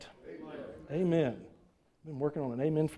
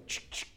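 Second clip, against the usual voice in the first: mock gun-cocking sound; 11 dB quieter than usual. Shown as a demonstration. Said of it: "we're all gonna go".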